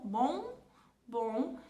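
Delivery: "bom" nasalizado sem fechar os lábios; "bom" com M só pelo nariz; Portuguese nasal bom. Shown as a demonstration. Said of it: "a gente não tem a pronúncia completa". ("bom" à portuguesa, nasal)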